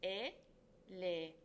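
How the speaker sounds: "elefante" as e, le, fan, te with gaps; broken into syllables. Shown as a demonstration. Teacher breaking the word into syllables, slow and separated. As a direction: slowly list each syllable of "elefante" separately. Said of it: "the word into syllables".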